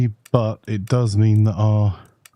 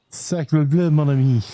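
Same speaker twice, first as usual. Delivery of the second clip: put-on ridiculous French accent; 4 semitones higher than usual. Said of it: "in my ridiculous French accent".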